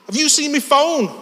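high-pitched, pushy Scouse; Scouse accent. Retold or imitated. Big lad confronting a stranger, high aggressive Scouse. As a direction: demand it in broad Scouse. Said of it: "give you a glimpse of the scouse".

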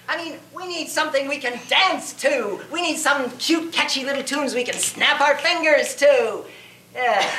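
sarcastic parody of shallow taste; mock critic. Mock critic wanting dance tunes.

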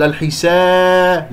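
الحسا with the long aa losing its sound; wrong weakened alif. Shown as a demonstration. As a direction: let the drawn aa of الحسا thin away. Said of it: "لا أقلل صوت الألف". («الحسا» بإضعاف صوت الألف)

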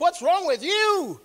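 high, drawn-out mock bewilderment; imitated exasperated son. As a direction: mimic a baffled kid, pitch jumping up. Son questions his yelling father.

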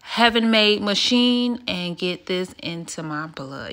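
affected calm vlog read; put-on soft vlogger voice. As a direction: murmur it like a soothing aesthetic video. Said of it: "why am I talking like this? This is not how I talk".

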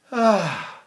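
"ah" let run out through the throat; unstopped breath. Shown as a demonstration. Teacher showing what happens without a breath stop, a leaking "ah". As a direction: exhale on an unchecked "ah". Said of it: "if I don't stop it".

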